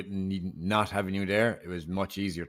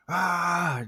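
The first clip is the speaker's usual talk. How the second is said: mock scream; 10 semitones higher, 4 dB louder than usual. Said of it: "just scream at the wind".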